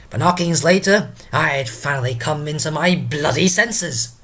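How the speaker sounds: lightly hammed-up drunkard with swooping pitch; Drunken Porter. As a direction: ramble like a tipsy gatekeeper, bursts then drops. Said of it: "let us invite Drunken Porter himself".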